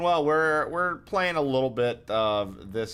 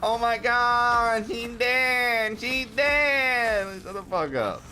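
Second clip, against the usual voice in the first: much higher, slow shrieked mock reveal; high mocking voice of the dramatic friend, cut off with a snap; 11 semitones higher, much slower than usual. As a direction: parody the friend gasping out the deaths. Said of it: "Y'all know what I'm talking about".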